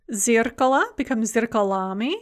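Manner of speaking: "зеркало" stressed on the first syllable, "зеркалами" on the A of the ending; stress shift. Shown as a demonstration. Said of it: "note the stress shift".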